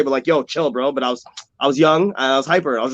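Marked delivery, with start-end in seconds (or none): 0.3-0.9 easygoing, unaggressive "chill"; friendly calming. Retold or imitated. Joey grabs a friend to calm him, easygoing and friendly. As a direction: settle a friend down without hostility. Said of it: "not in a fucked up way".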